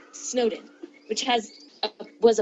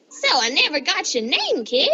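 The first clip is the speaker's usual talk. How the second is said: lightly voiced skeleton, a bit higher; normal voice; 6 semitones higher than usual. Sans asking the reader's name, lightly voiced. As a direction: ask casually, barely in character. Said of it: "he said in a normal voice".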